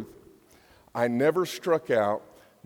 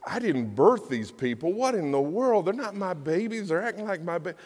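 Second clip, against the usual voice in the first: frustrated; 5 semitones higher than usual. Acted. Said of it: "he got so frustrated".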